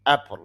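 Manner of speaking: "অ্যাপল" with the stress on its opening vowel; stressed first syllable. Shown as a demonstration. Teacher showing learners the stress mark, first syllable of "অ্যাপল" stressed. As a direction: press firmly on the start of "অ্যাপল". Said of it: "অর্থাৎ চাপ দিতে হবে এখানে".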